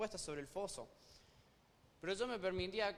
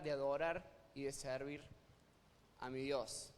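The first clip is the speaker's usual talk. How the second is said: Daniel praying; slower than usual. Pretend. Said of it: "Daniel puede estar pensando algo así".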